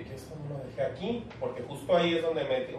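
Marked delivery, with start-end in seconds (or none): 0.0-1.3 soft, puzzled murmur; softly confused at the paper; puzzled quote. Retold or imitated. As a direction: wonder to yourself quietly. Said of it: "y dije".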